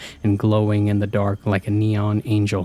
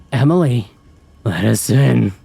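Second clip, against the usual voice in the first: forceful guttural growl; low and guttural; 2 semitones higher, 5 dB louder than usual. A narrator's reading. Fake sister demanding entry, low and guttural. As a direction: drop into a loud guttural demand. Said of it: "Annie's voice became low and guttural".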